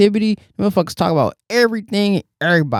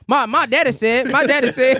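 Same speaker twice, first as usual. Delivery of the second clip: mock kid insisting; 5 semitones higher than usual. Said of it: "And teacher tell them I'm wrong".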